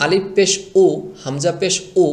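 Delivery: উ started with a hard glottal knock; jolted hamza উ. Shown as a demonstration. Teacher shows what the mistake resembles, উ knocked hard. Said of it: "এটার মতো হয়ে গেল".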